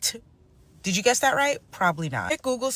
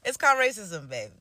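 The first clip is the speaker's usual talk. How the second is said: sassy retort; 2 semitones higher than usual. Real, not acted. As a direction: tease it out with attitude. Sassy punchline after laugh.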